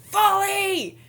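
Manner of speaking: sudden high, loud war cry; battle shout. Retold or imitated. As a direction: yell the command across the field. Orc calls out in battle.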